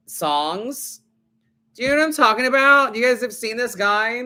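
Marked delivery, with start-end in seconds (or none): 1.8-4.2 high, loud eager question; excited. Real, not acted. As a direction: burst out asking, all excited. Eager question about TikTok guy.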